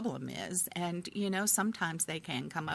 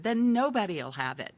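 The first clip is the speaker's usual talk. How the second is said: louder mock declaration to squabbling kids; retold exasperated parent; 3 semitones higher, 6 dB louder than usual. Parent confiscating the toy from the kids, mock exasperation. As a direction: re-enact a parent laying down the law, loudly.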